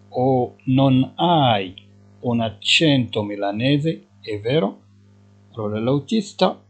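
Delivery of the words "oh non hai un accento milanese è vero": each syllable drawn out, slowly; slow dictation. Shown as a demonstration. Teacher to Moroccan students, slowly dictating Italian. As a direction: spell it out slowly for learners. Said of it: "teacher repeating driver line".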